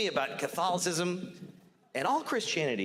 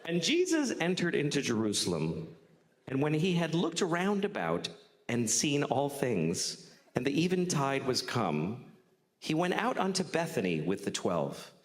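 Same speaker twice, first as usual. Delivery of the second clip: scripture reading. Acted. Reads scripture aloud.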